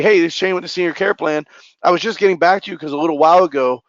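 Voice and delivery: rapid, energetic pitch with no pauses; fast. Shown as a demonstration. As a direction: rattle through the script in one breath. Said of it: "you don't have to say it as fast as I did".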